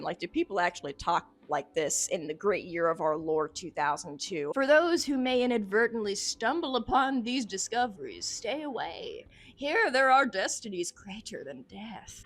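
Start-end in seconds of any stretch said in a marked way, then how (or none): 4.5-12.2 theatrical, portentous reading; dramatic warning narration. Acted. Investigator warns those who stumble upon discoveries, theatrical. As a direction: warn off whoever finds these words. Reads a journal aloud.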